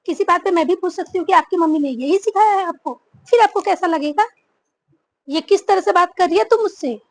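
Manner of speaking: loud, rising challenge; heated retort. Acted. Bride and mother-in-law trade loud angry retorts. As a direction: fire the question back at her.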